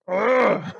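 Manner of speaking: annoyed groan. Real, not acted. Annoyed at movie plot.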